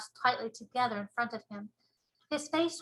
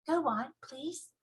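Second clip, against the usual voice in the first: put-on little girl voice; 4 semitones higher, slower than usual. Sophie pleading.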